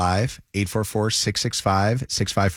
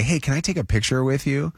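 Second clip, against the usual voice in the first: friendly fake-out; 6 semitones higher than usual. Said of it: "but I say".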